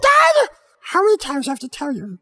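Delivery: affectionate nagging. Acted. Kid scolding his dad.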